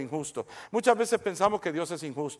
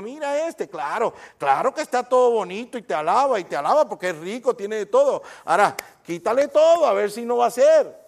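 voicing Satan. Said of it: "Cuando Satanás vino y le dijo".

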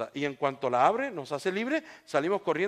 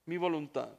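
quiet repeat; 5 dB quieter than usual. Real, not acted. Preacher letting the point sink in, quietly. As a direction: drop down and let it sink in. Hushed repeat after the climax.

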